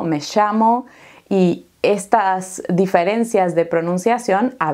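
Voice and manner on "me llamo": Argentine "me llamo" with the ll said as sh, "me shamo"; Argentine pronunciation. Shown as a demonstration. Teacher shows students the Argentine "llamo", with an Argentine accent. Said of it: "en Argentina tiene otra pronunciación".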